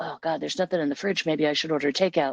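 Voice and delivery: imitated mumble under breath. Retelling standing in the kitchen talking to self: retelling own mumbling to self. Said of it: "mumbling to myself".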